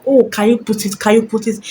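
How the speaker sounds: half-hearted mock call-out, pleading; mock shouting plea. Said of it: "When she starts shouting".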